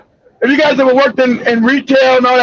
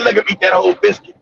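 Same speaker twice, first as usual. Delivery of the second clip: low sly brother voice; 7 semitones lower, faster than usual. Retold or imitated. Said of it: "he said".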